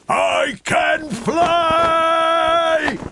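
high, loud, slow shout of joy; cried out. A narrator's reading. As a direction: shout it out with delight. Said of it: "cried Douglas".

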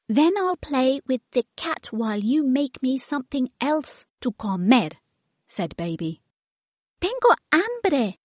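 put-on very high, demanding little-girl voice; baby voice. Baby demands yummy food from the children, very high and bossy. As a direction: play a bossy toddler ordering food. Baby's voice.

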